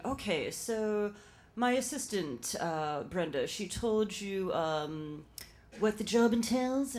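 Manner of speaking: put-on slow, drawn-out upper-crust accent; upper-crust mother accent. Employer questioning the interviewee, slow upper-crust accent. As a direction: draw out each phrase in a haughty society accent. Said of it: "It reminded me of, uh, Harold and Maude".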